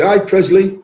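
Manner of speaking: imitating a loud, high hail; called-out greeting. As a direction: call out like a club regular greeting a mate. Club regulars calling out a greeting.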